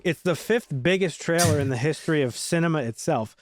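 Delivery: cold, shivering. Real, not acted. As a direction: talk through a shiver. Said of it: "I'm freezing".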